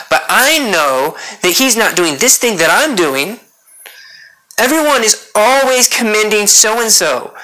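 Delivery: mildly acted grievance of an overlooked minister; jealous minister. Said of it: "We can be jealous of other ministers".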